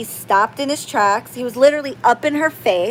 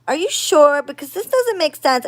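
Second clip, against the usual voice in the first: higher-pitched puzzled query; retold disbelief, pitched up; doubtful questioning; 5 semitones higher than usual. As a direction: question it as if unconvinced.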